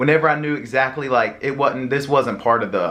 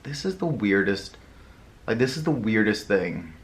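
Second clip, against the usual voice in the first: muttered disbelief; 3 semitones lower, 6 dB quieter than usual. Retold or imitated. Whispered-level inner thought.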